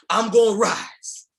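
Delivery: slow, loud chant from the belly; full-voiced call from the gut; from your stomach. Shown as a demonstration. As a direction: shout it out, slow and strong. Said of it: "say it with me from your stomach".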